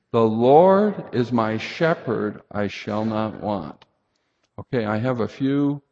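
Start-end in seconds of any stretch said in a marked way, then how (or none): 0.1-3.8 recited together. Shown as a demonstration. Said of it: "Say that with me".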